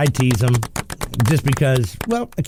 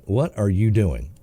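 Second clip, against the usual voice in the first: disapproving trooper; 4 semitones lower, slower than usual. Retold or imitated. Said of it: "looks at me like".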